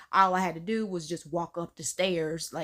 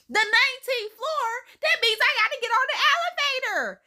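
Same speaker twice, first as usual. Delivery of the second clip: much higher, fast disbelieving question; incredulous; 4 dB louder, faster than usual. Retold or imitated. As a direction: fire it back in shock. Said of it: "She's like".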